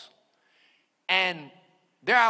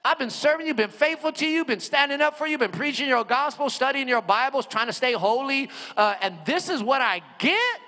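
retold desperate plea; 6 semitones higher, 3 dB louder than usual. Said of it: "I'm crying out to God".

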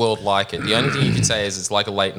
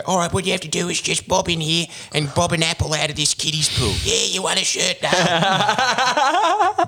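high, rising game show host, pitched way up; hammed-up game show host; campy presenter voice; 9 semitones higher than usual. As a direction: ham it up like a kids' show host handing out prizes. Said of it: "shirts where they go".

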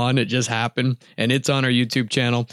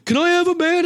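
high eager plea, raised pitch; eager asking. Retold or imitated. Friend begging the shooter for a band, high and eager. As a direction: beg for the band excitedly. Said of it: "And he goes".

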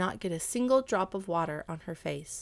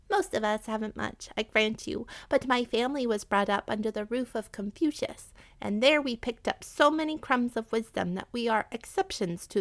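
higher rat voice, earnest; earnest pleading rat; 4 semitones higher than usual. Acted. Rat offering the cat obedience for life, pleading. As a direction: make your case as a humble captive rat, pitched up.

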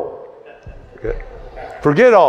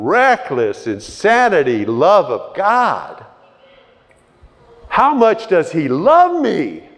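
high, swelling preacher's cry; full-force preaching; 7 semitones higher than usual. Acted. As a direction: preach it out to the congregation, carried away.

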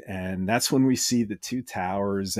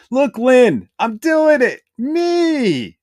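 high, loud, triumphant character voice; excited Orko cry; 13 semitones higher, 8 dB louder, much slower than usual. Acted. Orko turns back to Evelyn, high excited shout. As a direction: shout it high, bursting with pride. Orko's triumphant line acted out.

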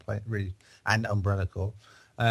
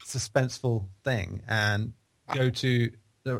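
suspenseful; slower than usual. Shown as a demonstration. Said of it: "build to it in some sort of suspenseful".

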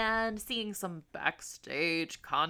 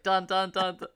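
suspense dun dun; 6 dB louder than usual. Shown as a demonstration. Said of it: "like the suspense noise".

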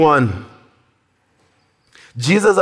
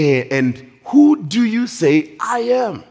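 lightly acted higher-pitched challenge; probing question; 4 semitones higher than usual. Jesus turns to the disciples and asks, lightly voiced probing. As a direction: turn the question directly on the listeners.

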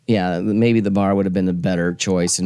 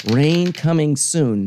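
reading the forecast; 6 semitones higher, much slower than usual. Retold or imitated. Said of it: "it said".

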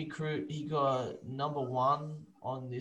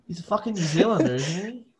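exasperated; 4 semitones higher, 9 dB louder than usual. Retold or imitated. Retold exasperated reply.

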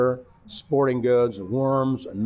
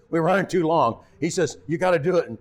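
raised, urgent mock holler; higher mock shout from the control room; retold holler; 6 semitones higher than usual. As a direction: call it through the glass, hurried. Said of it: "He hollers at me".

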